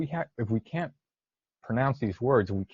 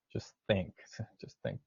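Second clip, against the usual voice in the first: much softer, trailing down; hushed prompt; 9 dB quieter than usual. Real, not acted. Teacher gives pupils minutes to think, hushed prompt. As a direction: drop the volume to leave room for thought.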